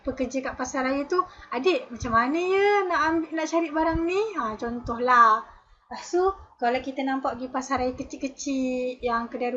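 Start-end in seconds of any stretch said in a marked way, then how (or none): 1.5-4.2 higher, lightly voiced parent politely calling; a parent asking a young shop worker for help. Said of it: "mak ayah kita kan, kadang dia panggil". (ibu bapa memanggil pekerja muda dengan sopan, suara lebih tinggi)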